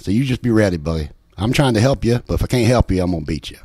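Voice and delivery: mock-threatening West Virginia hillbilly, loud and fast; a joke voicemail to his friend, hammed-up hillbilly threats; threatening hillbilly accent. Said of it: "threatening voice messages in, in, like, a hillbilly, hillbilly accent".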